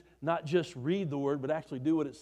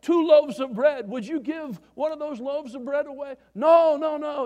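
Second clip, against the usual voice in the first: higher, louder hammed-up Russian voice; mock Russian comrade telling a joke; 9 semitones higher, 7 dB louder than usual. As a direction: play both men in the joke, broad and loud. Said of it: "this Russian guy".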